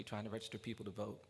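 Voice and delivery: low, hushed line ending; imitated elder's subdued testimony; solemn recollection. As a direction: let it sink low and soft. Old man recounting his scars.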